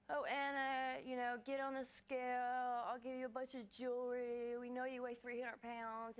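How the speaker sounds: lightly imitating rude, taunting callers; mock rude callers. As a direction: retell the callers' jeering, a touch put-on. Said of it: "be really rude and say".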